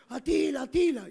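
mildly acted maternal yell; retold mother's cry. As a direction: call the name as the frightened mother did, without full force. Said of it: "Mi mamá gritaba".

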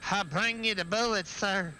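lightly voiced hunchback servant; hunchback henchman. Bringing ammo to the player, a hint of hunchback henchman. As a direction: play it a little like a servile hunchback. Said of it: "that sounded exactly like a, a hunchback".

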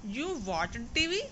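"You watched टीवी" read slowly, rising at "टीवी"; slow question with a lift on "टीवी"; questioning tune. Acted. Teacher asks pupil about homework excuse, questioning, "टीवी" rising. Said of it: "पूछा जा रहा है".

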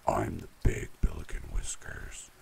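deep, deep voice. A narrator's reading. Big billy goat answering the troll, deep voice. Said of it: "in a deep, deep voice".

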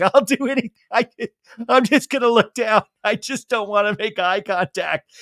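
high, loud nervous mumble; awkward Ann voice. Retold or imitated. Ann cutting boxes avoiding Sandoval, high nervous voice. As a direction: avoid his eyes. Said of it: "She's just like".

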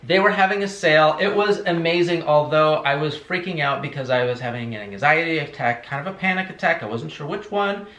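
lightly hammed-up excited YouTuber; a touch of gushing vlogger voice; mock YouTuber. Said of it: "here's my impression of a ... candle haul".

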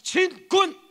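high, loud drill cry; soldier's shout, full force; military salute shout. Shown as a demonstration. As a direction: lead the crowd in an army salute. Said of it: "한번 해봅시다".

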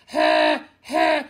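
loud Kermit-style growled ha. Shown as a demonstration. Teacher demos the Kermit growl sound, loud. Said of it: "pretend like you're Kermit the Frog".

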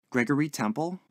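Gregory Temple rising like a question; searching memory, lift the end of "Gregory Temple"; musing aloud. A narrator's reading. Lodger trying to place a name, musing aloud. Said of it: "searching his memory".

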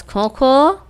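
two spoken mock coughs; cough sound. Shown as a demonstration. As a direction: lightly imitate a cough, twice. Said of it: "ઉધરસનો અવાજ". (ઉધરસની હળવી નકલ)

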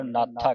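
ਨਾਥਾ with the th doubled, "nat-tha"; firm held consonant in ਨਾਥਾ; tight pronunciation. Shown as a demonstration. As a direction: press the middle of ਨਾਥਾ. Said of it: "ਅਧਿਕ ਲਾ ਕੇ ਕੱਸ ਕੇ ਬੋਲਣਾ".

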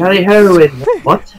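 high mock English accent. Shown as a demonstration. Demonstrating for a friend, mock English accent. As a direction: ham up a silly English accent. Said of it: "I do an English accent".

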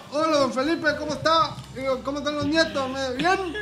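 put-on old lady voice. Acting old lady at kiosk.

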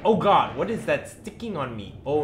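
high, loud alarmed cry; startled panic. Real, not acted. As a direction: yelp in sudden fright. Startled by something in-game.

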